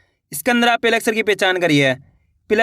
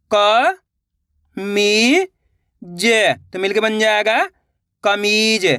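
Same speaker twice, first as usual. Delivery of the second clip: each syllable drawn out on a rising pitch, then the whole word; syllable drill; much slower than usual. Shown as a demonstration. Teacher sounding out Hindi syllables for young readers, drawn out. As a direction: sound out syllables slowly for beginners. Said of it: "चलिए देखिए".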